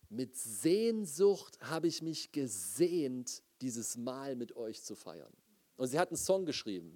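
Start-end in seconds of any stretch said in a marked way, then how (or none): 0.1-5.3 quoting Jesus. Retold or imitated. Pastor quoting Jesus at the Last Supper, slow and reverent. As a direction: speak it slowly and gently, like holy words. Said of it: "Und er sagt dort".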